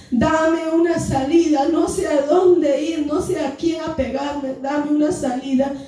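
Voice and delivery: cornered, imploring retold prayer; retold pleading prayer. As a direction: beg God for a way out.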